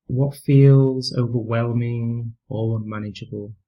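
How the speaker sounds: calm, unhurried meditation voice with long pauses; guided meditation. Real, not acted. Teacher leading listeners through a mindfulness practice, calm guided meditation. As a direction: gently guide them through breathing and body awareness, leaving space between phrases.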